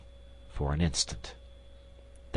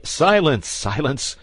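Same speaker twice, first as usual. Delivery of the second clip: louder, higher cry of silence; cried out; 7 semitones higher, 6 dB louder, slower than usual. Acted. Duke cries out to stop the queen, loud. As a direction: cut her off with a cry. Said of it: "cried the duke".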